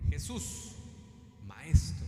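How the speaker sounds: calling out. Acted. Lepers cry to Jesus from afar, calling out. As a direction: call out as if to someone far off. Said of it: "Ellos le gritan".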